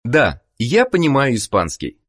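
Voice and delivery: ordinary talk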